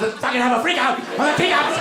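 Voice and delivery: high-pitched hammed-up shout; frenzied high shout, acted; mock kid freak-out. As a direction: yell it like a kid melting down. Voicing kids plotting a meltdown.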